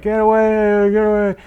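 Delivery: high, loud crowd jeer; a comic mimicking the crowd yelling her away; mock crowd shout. Whole audience shouting her off.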